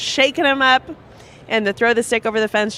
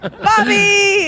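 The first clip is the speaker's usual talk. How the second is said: high cry of a name; calling out; 11 semitones higher, 3 dB louder than usual. Acted.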